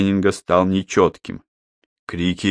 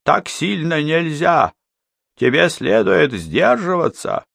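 anxious warning; 10 semitones higher than usual. Acted. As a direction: urge him to hold back. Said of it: "с тревогой".

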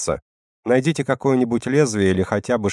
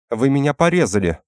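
shocked whimper; 6 semitones higher, 3 dB louder than usual. A narrator's reading. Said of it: "пробормотал Деметриус".

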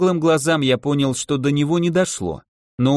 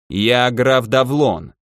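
haughty declaration; 2 semitones lower, much slower than usual. Acted. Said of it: "подбоченившись, заявил предводитель рыцарей".

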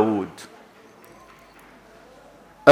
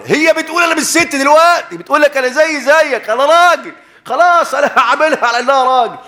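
mocking retold voice; 12 semitones higher, 3 dB louder than usual. Man beside him, quoted mockingly.

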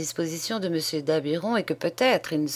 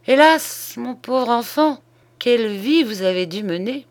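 higher, exclaimed commiseration; pitying lament; 6 semitones higher, 4 dB louder than usual. A narrator's reading. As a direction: lament the poor child's hard life. Old man pities his young friend. (lamentation apitoyée, voix plus aiguë)

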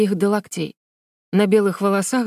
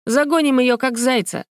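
shouting; 5 semitones higher than usual. A narrator's reading. Alina chasing Vera like a hare, shouting. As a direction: whoop like a hunter. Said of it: "кричала Алина".

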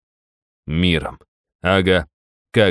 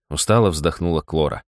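plain reading voice

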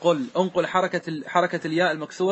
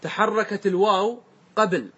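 slow emphatic rule; 3 semitones higher, slower than usual. Shown as a demonstration. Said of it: "شوف الحيلة كيف".

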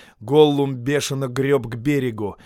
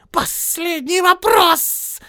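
much higher, slow creature voice; Gollum repeating; 9 dB louder, much slower than usual. Acted. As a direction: echo it, brooding. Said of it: "повторил Голлум".

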